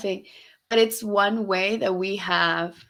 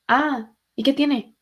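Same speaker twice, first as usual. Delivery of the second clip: dismissive retort; 6 semitones higher than usual. Retold or imitated. Imitates mom shrugging off the correction.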